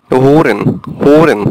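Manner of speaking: হোরেন said as German "hören"; হোরেন, stress on the first syllable; German example word. Shown as a demonstration. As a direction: say হোরেন with the umlaut o. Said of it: "এরকম".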